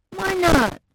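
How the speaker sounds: put-on high, loud, slow childlike insistence; Phoebe's voice. A narrator's reading. Phoebe arguing with her mom, high and slow. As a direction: plead your case like a stubborn child.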